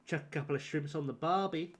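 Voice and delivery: shrimps-on-the-barbie Aussie; Aussie accent. Shown as a demonstration. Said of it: "are we talking Aussie like".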